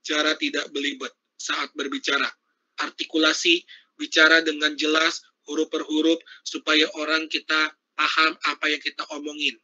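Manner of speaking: measured pacing. Shown as a demonstration. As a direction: clear delivery with pauses at every comma. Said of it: "Nah, jangan kayak gitu juga". (tempo tenang dengan jeda)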